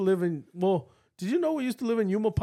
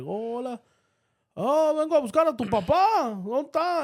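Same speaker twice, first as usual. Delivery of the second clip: visitor; 6 semitones higher than usual. Retold or imitated. Acting out visitor greeting the kids.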